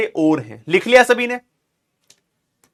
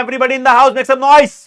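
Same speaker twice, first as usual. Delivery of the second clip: hype call; 4 semitones higher, 4 dB louder, slower than usual. Acted. Teacher hyping class to answer.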